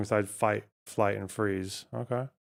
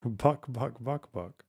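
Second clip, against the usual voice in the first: "Buck, buck" clucked, trailing off softer; fading cluck; 5 dB quieter, slower than usual. Shown as a demonstration. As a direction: cluck "buck" and let it die away. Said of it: "No, they go".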